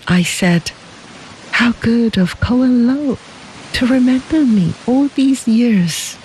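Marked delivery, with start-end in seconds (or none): 1.6-6.2 put-on young woman Xie. A narrator's reading. Young woman Xie voiced in story.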